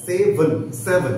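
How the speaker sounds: সেভেন said slowly, last vowel reduced; সেভেন with no full vowel before n; slow seven for students; slow model seven. Shown as a demonstration. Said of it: "লাস্টে যে ভাওয়েলটা রয়েছে সেই ভাওয়েলটা হবে না".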